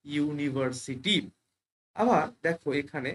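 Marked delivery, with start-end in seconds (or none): 0.1-1.1 ইউনিভার্সিটি slowly, opening on "yu"; demonstrated pronunciation. Shown as a demonstration. Teacher models the word for learners, ইউনিভার্সিটি slowly demonstrated. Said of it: "এই ওয়ার্ডটার উচ্চারণ কি হচ্ছে".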